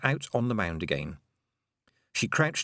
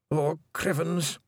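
small, higher, slow frightened mutter; tiny voice; 8 semitones higher, slower than usual. A narrator's reading. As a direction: shrink the voice right down. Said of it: "in a tiny voice".

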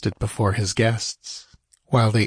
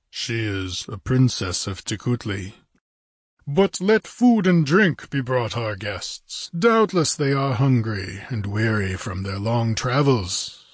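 lightly voiced stately ruler; a hint of a grand chieftain; Olmec's courtly hosting. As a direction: order hospitality with a touch of ponderous dignity. Olmec as host.

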